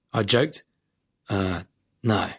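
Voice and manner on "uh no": scowling. A narrator's reading. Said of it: "he replied, scowling".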